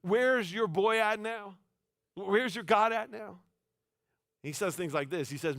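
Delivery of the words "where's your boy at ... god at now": high, slow mocking taunt; trash-talk taunt. Elijah taunting the failed prophets, slow and mocking. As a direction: draw out each word to rub it in. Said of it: "he's literally like".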